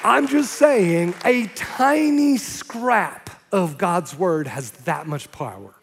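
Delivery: very slow and deliberate; slow emphasis. Real, not acted. Preacher stresses the power of scripture, slowly. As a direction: lean on every word. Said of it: "preacher's emphatic point".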